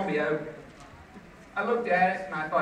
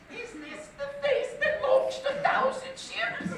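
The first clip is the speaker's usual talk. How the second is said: high, theatrical mock-British recitation; fake British accent. English teacher reciting Greek legend to class, fake British accent. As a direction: declaim it as a hammed-up British schoolteacher. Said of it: "And here she goes".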